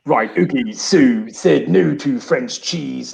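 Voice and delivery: slow, muttering Boris voice; imitating Boris Johnson. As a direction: grumble it slowly like a rueful Boris. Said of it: "looking at Europe going".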